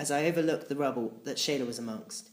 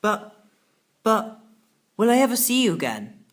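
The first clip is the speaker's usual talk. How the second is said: higher, louder stammering plea; desperate boy; 8 semitones higher, 5 dB louder than usual. Acted. Boy asking his departing friend if they'll meet again, desperate. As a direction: stumble over the words in distress.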